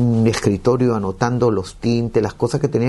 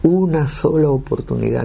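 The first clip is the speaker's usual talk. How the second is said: imploring, raised pitch; begging, a little higher; retold pleading; 4 semitones higher than usual. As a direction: re-enact an earnest appeal to God. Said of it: "le pedí a Dios".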